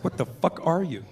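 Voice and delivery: baffled. Retold or imitated. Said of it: "I didn't know what to make of him".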